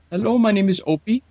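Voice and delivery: high, hammed-up fake American operator greeting; mock call-center guy. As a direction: parody the overseas caller with the Americanized name. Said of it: "they got it right out of freaking Mayberry".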